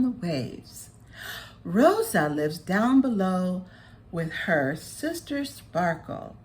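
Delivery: a sea friend explaining to the butterfly; kindly storyteller creature. Acted. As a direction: tell it like a fond elder. Character explains the festival.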